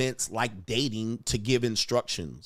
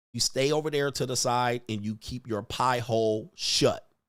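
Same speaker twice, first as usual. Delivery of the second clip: plain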